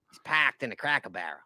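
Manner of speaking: imitated Australian accent. Host echoing where his co-host parked, mock Australian accent. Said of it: "I figured out his accent".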